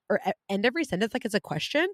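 quick phrase, pitch rising on "question"; uptalk. Shown as a demonstration. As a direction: end on a questioning upswing at "question". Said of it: "Californians are uptalkers".

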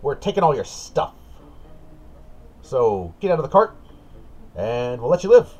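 high, loud goblin threat. Acted. Goblin ordering the party out of the cart, high loud. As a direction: yell it high like a bullying little goblin. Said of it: "The goblin goes".

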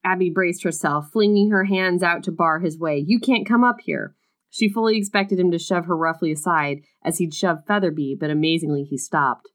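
reading a romance novel aloud; story reading. A narrator's reading. Reading a book passage aloud to her co-host, story narration. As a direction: narrate the scene, lightly dramatic.

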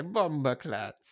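slow, drawn-out Jamaican slang; mock Jamaican accent. Echoing the co-host in a mock Jamaican accent. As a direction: lean into the Jamaican voice.

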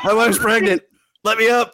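high, whiny mock plea. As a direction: squeak it out like a pleading victim. Host mocks the agent's plea.

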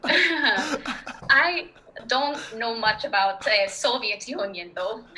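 slow Russian accent, on the verge of giggling; Russian accent held through suppressed laughter; hesitant, drawn-out Russian accent. Shown as a demonstration. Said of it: "inside of a Russian accent".

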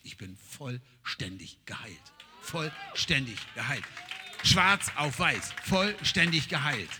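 slow, weighty stress on vollständig; slow emphasis. Acted. Emphatic repeated proclamation.

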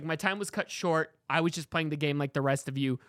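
lightly voiced Caesar pleading to the voters; a hint of a solemn Caesar. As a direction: plead your case gravely, like a fallen emperor. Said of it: "I would say his argument is he's like".

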